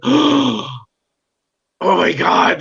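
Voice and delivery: high, loud swoon of amazement; starstruck awe. Retold or imitated. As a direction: gush like an awestruck fan. Retelling awe on entering Marvel office.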